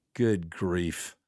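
low, soft mutter; under his breath. Retold or imitated. Boy giving up his tantrum, low mutter under breath. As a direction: imitate a quietly muttered aside. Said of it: "Under his breath, he said".

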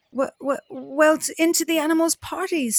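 high, fast nervous stammer. Acted. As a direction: trip over the first sounds, scared. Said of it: "stammered Bat".

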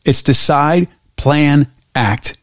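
"decide", "plan", "act" each set apart by pauses; emphasized steps. Shown as a demonstration. Host stressing her method to the guest, word by word. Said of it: "I really want to emphasize this".

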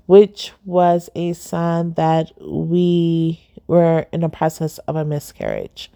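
slow and fading, holding back tears; a shaky, tearful voice; trying not to cry. Real, not acted. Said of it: "'cause I'm trying not to cry".

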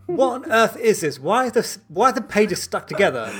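retold consultant yelling at a sticky book; incredulous angry shout. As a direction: bellow it like a disgusted boss. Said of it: "and he goes".

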